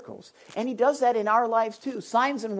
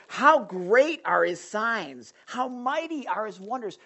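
slow, grand, marvelling proclamation; awed king proclaiming; 3 semitones higher, slower than usual. Retold or imitated. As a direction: savour each word in wonder. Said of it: "He's, he's like".

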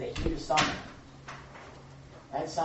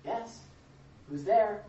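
calm and patient; 5 semitones higher, slower than usual. Acted. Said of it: "Very calmly and patiently".

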